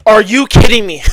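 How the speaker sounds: real outraged shout at the screen; loud, incredulous cry at bad film; disbelieving shout. Real, not acted. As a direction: yell it in pure disbelief. Coach stunned by a missed tackle.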